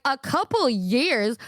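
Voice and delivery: slow, drawn-out disbelief; retold incredulity. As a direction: stretch it out, as if you can't believe it. Retold disbelief at long wait.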